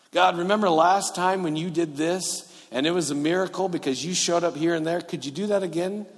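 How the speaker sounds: high, hopeful, coaxing request; wheedling prayer. Acted. Believer asking God to repeat a miracle, wheedling. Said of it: "when we pray like that".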